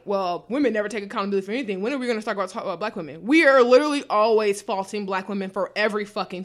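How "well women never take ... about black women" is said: fast, lower mock of men; quick, dismissive impression of men trailing lower; lightly voiced mocking man. Mocking men's voice.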